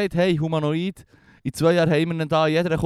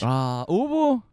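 kawaii anime voice; 4 semitones higher, much slower than usual. Acted. Kawaii talk, mock cute word.

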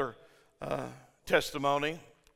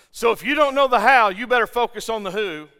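emphatic preaching; 5 semitones higher, 8 dB louder than usual. Real, not acted. Preacher climax of point.

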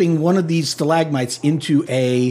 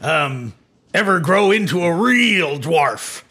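pirate-like dwarf. Acted. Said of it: "you sound like a pirate".

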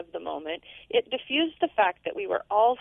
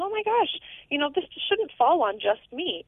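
exasperated inner thought; 5 semitones higher than usual. Retold or imitated.

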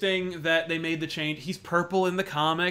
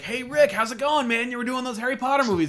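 mock Kevin Smith; 6 semitones higher than usual. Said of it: "he's like".

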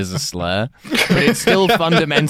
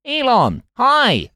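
mock eager greeting; 13 semitones higher, much slower than usual. Mimicking Rishi greeting Elon.

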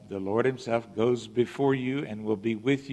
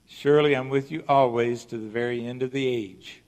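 louder verse reading, leaning on "always"; stress on always; 5 dB louder than usual. Shown as a demonstration. Preacher repeating the verse to drive it home, emphasizing "always". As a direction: press firmly on "always". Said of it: "I'm gonna emphasize that word".

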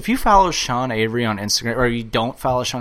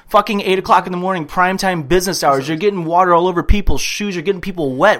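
mild mock tirade; retold yelling; 4 semitones higher, 4 dB louder than usual. Imitating Avery at a man hosing the sidewalk, mild mock yell. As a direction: rattle off an indignant telling-off, only slightly raised. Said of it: "yells at him".

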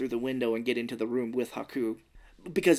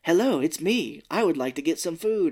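imitating frog; 5 semitones higher, 5 dB louder than usual. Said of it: "talking as the frog".

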